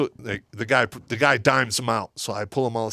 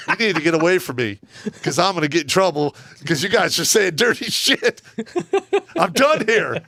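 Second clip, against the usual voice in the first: higher-pitched exasperated outburst; exasperated protest; 6 semitones higher than usual. Retold or imitated. Sergeant backing away from soldiers' dirty talk, exasperated protest. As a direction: plead your way out, pitch climbing.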